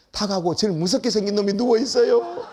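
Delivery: mock tearful phone complaint; imitated tearful wife. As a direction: lightly act a wife crying down the phone. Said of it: "울면서 전화 왔어". (울먹이는 아내를 살짝 흉내)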